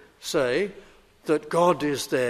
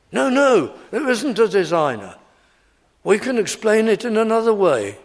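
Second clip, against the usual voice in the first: lightly voiced objector, raised and emphatic; insistent evolutionists; 4 semitones higher than usual. Preacher voices evolutionists denying a designer, mock insistence. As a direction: argue the evolutionists' case with mock conviction. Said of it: "Even many evolutionists say".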